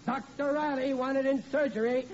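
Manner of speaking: chuckling at his own joke; laughing. Acted. Father jokes at the table before carving, chuckling. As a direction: laugh through the announcement as a gag. Riley joking while taking carving knife.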